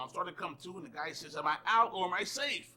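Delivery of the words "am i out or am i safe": slightly raised, urgent question; retold player's yell. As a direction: imitate a player calling to the umpire. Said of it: "I hear one of the players yelling".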